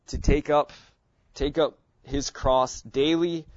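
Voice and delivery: up repeated and pushed; stress on up. Shown as a demonstration. Teacher stressing take up for the class. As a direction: lean on up twice. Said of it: "I'm emphasizing different words".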